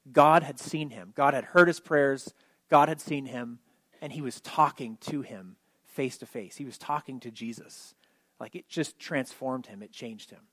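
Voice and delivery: low, slowing and softening to near nothing; hushed reverence. Real, not acted. Preacher telling the congregation how Nathanael was transformed, hushed and reverent. Tender climax of the story.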